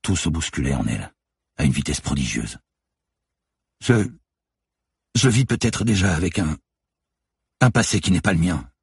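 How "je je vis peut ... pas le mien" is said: high, halting stammer. A narrator's reading. Manon holding back sobs as she answers Lucie, stammering. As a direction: stumble over the words, voice pitched up. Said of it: "bafouilla-t-elle".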